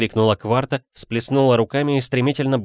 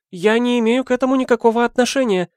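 much higher, fast frightened maid; frightened squeal; 4 dB louder, faster than usual. A narrator's reading. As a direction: squeal it out in a panic. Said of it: "испуганно взвизгнула служанка".

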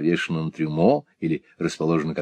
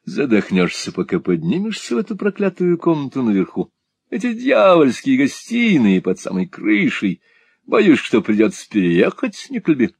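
sassy drag queen; 5 semitones higher than usual. Acted. Mantalini complains about stairs.

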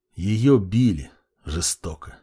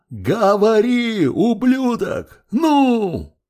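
much higher, slow, furious yell; roaring demand; 11 semitones higher, much slower than usual. A narrator's reading. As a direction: yell it at him, drawing out each word. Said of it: "заорал". (медленный яростный крик, голос выше)

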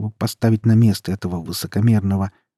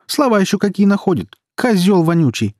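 high, loud scolding; outraged sister yelling high; indignant shout; 11 semitones higher, 5 dB louder than usual. A narrator's reading. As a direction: hurl insults after someone. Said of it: "крикнула ему сестра вдогонку".

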